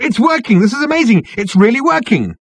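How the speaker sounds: high, loud and amazed; thrilled yells of discovery; excited shouting. A narrator's reading. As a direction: shout in astonished triumph. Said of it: "shouted Ford".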